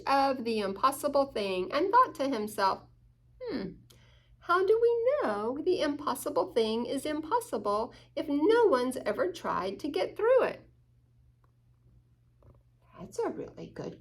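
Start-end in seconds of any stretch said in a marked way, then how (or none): 3.4-10.6 lightly higher curious little dog; a hint of an eager puppy. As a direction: wonder aloud as a small dog. Hugo voiced in story.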